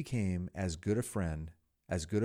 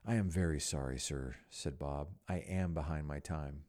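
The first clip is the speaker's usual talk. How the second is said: timid pleading; 5 semitones lower than usual. Acted. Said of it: "pleaded Bob".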